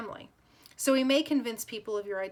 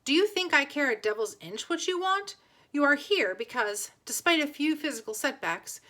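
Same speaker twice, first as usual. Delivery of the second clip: higher, louder, angry retort; furious nobleman scolding a defiant boy; 5 semitones higher, 4 dB louder than usual. Acted. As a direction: snap back at him in anger. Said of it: "Connor's face twisted in anger".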